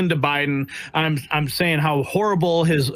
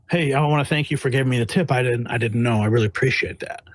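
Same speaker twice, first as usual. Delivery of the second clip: sarcastic thanks; 4 semitones lower than usual. Retold or imitated. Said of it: "I go".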